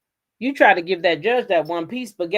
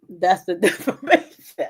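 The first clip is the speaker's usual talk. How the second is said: laughing; 3 dB louder than usual. Retold or imitated. Quoting judge, breaking into laughter.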